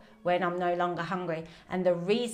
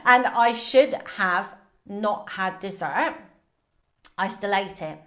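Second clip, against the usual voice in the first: talking with food in mouth; words around a mouthful; mouth full; 5 dB louder than usual. Real, not acted. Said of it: "got food in my mouth".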